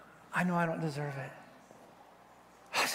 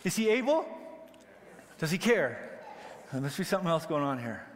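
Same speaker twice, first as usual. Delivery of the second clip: ordinary talk, nothing marked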